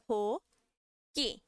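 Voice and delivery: "To" puffed with air, "ki" tight and dry; aspirated then tense. Shown as a demonstration. Teacher contrasts aspirated and tense for class, aspirated then tense. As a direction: breathe out on the first syllable, clamp the second. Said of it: "na primeira eu aspiro e na segunda eu duplico".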